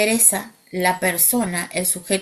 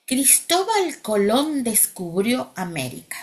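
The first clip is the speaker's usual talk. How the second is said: slow example sentence; 3 semitones higher, slower than usual. Shown as a demonstration. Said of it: "Lo voy a decir en voz activa".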